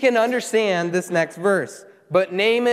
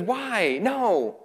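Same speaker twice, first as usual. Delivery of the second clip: mock angry protest; 4 semitones higher than usual. Preacher mimics Naaman walking away, mock angry. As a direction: act out a put-out man's protest, pitched up. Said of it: "he's angry, and he walks away".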